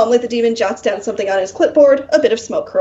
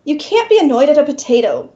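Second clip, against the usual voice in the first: irritable; 3 semitones higher than usual. Acted. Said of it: "the demon says irritably".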